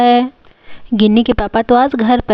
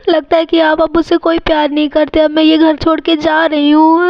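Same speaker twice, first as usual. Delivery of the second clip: mildly tearful, slightly raised voice; acted tearful hurt; 5 semitones higher than usual. Wife threatening to leave home, tearful hurt. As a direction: complain through put-on tears. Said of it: "mummy कितना ज़्यादा रो रही है".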